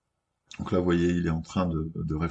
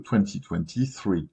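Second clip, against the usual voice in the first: "twenty twenty-three" said with a heavy French accent, each syllable even; French accent on English. Real, not acted. Apologising to viewers for his English, a French accent. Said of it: "Désolé pour mon accent en anglais".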